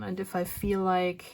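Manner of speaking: winded, short of breath. Real, not acted. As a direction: talk while running out of air. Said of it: "oh, I'm getting a bit winded".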